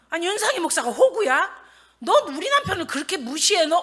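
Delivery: high-pitched acted confrontation; indignant challenge. Wife confronts whoever slighted her husband, indignant.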